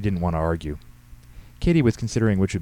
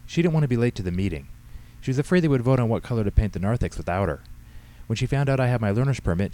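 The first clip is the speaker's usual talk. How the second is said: put-on higher-pitched, lively girl's excuses; teenage daughter explaining; 4 semitones higher than usual. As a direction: play the daughter justifying herself to Dad. Voices teenage daughter Katie.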